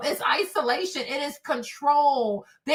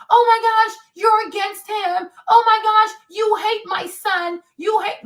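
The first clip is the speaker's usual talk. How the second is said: mother's high, loud "oh my gosh" outburst; mock outraged mom; 6 semitones higher, 5 dB louder than usual. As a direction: mimic an indignant mother, pitched up. Mother's outraged accusations retold.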